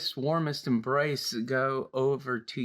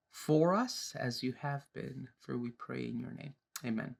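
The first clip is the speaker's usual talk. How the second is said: prayer. Real, not acted. Host leads listeners in opening prayer, slow and reverent.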